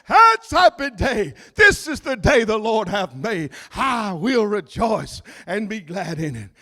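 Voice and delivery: joyful exclaim. Pretend. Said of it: "you ought to say".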